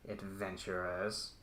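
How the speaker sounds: distorted sinister voice over an intercom; menacing villain savouring his work. Acted. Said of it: "you hear a very distorted, uh, sinister voice".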